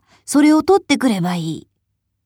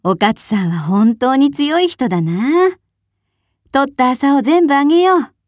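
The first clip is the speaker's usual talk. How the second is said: higher, lightly voiced admiring crowd; admiring villagers; 6 semitones higher than usual. A narrator's reading. Villagers reward brave Okatsu, higher admiring voices. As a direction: praise her and offer the hemp gladly. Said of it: "とみんなが言いました".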